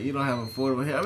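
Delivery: imitating Trump. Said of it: "why you do your mouth like that when you imitate Trump".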